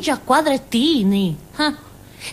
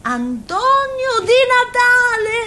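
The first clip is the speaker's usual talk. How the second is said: high, delighted exclamation of recognition; excited cry; 13 semitones higher, slower than usual. Acted. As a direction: call the name out with childish glee. Spotting a footballer, delighted. (esclamazione entusiasta, acuta)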